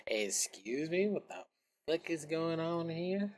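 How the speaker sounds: slow, drawn-out incredulous question, rising at the end; mock indignant query. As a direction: stretch it out in put-on disbelief. Acting user startled by popup window.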